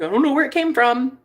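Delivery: lightly put-on British accent; a touch of British in the voice. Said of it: "speak in my British accent".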